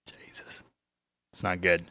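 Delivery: breathless whisper with a laugh; whispered dismay. Real, not acted. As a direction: whisper it, barely audible, half-laughing. Groaning reaction to a bad joke.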